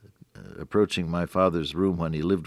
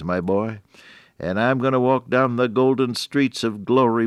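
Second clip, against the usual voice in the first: lightly voiced father, pitched up; a hint of Pop's eager hope, raised voice; hopeful old father; 5 semitones higher than usual. Blind father tells his boy about heaven, hopefully.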